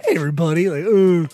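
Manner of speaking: warm, welcoming, friendly voice. Showing the voice the speaker uses for the plugs: friendly voice. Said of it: "I do my friendly voice for the plugs".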